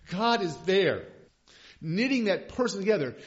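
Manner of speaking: loud, high declaration; impassioned preaching. Acted. Pastor preaching to congregation, loud and high. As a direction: build the fervour. Sermon climax.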